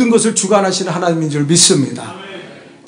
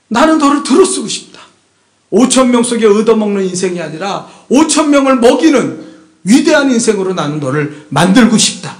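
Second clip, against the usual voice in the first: proclaiming loudly; 5 dB louder than usual. Retold or imitated. God's voice proclaimed.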